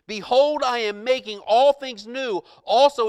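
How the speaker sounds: high, loud proclamation; voice from the throne. Acted. God on the throne heard by John, loud proclamation. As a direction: declare it with authority. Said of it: "he who was seated on the throne said".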